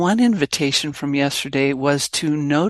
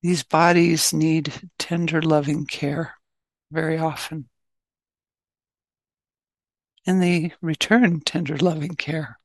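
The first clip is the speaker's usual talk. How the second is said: measured meditation guidance with long pauses; guided meditation. Acted. Teacher settling an online group into meditation, guided meditation. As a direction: ease listeners gently into stillness, phrase by phrase.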